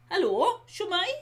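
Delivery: lightly put-on Welsh accent, rising; a bit of a Welsh lilt on the greeting. Shown as a demonstration. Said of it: "put on a bit of an accent".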